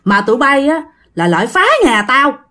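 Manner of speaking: put-on rising pitch, angry old man building up; an old ghost scolds intruders, getting angrier; mock ghost scolding. Old ghost berates soldiers for wrecking his home, building anger. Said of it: "Ổng mới chửi".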